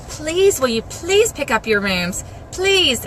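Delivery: imitating a mother asking nicely; nice, calm, sweet. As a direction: plead sweetly, lifting each "please". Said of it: "I ask nicely and calmly and sweetly".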